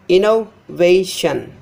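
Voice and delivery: innovation slowly, inno...va...tion; broken into chunks. Shown as a demonstration. Teacher breaking down the word, innovation in slow pieces. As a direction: separate the parts of innovation with pauses. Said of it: "Before this syllable is stressed".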